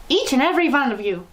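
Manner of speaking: loud commanding witch boom; thundering. A narrator's reading. Grand High Witch thundering orders to witches. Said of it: "thundered the Grand High Witch".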